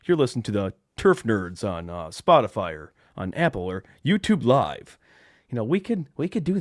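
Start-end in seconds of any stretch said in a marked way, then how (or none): 0.0-5.0 loud sports radio announcer impression; Gator. Host imagining Gator announcing the Turf Nerds podcast, loud announcer impression. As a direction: plug the show in a big local sports guy voice. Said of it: "he would be like".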